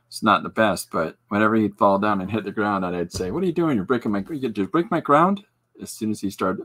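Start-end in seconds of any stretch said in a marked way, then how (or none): 3.3-5.4 mock outrage. Playful scolding of fallen son.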